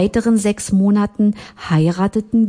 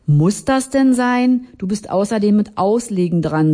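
annoyed; 4 semitones higher than usual. Acted. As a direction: let the annoyance drag out. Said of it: "sagte ich genervt".

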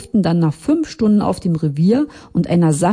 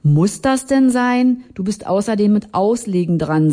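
annoyed friend urging Carlo to play; 4 semitones higher than usual. Acted. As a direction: snap at the card player to take his turn. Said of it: "sagte ich genervt".

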